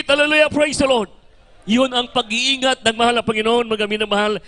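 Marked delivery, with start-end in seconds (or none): 0.0-1.1 Hallelujah, praise the Lord shouted high and loud. Shown as a demonstration. Preacher shows the congregation how to shout it, loud and high. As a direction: cry it out full voice.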